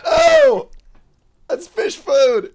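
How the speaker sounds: disgusted yelp, then slow; recoiling from a foul taste; after bitter medicine. Real, not acted. Tasting the awful fish pop rocks.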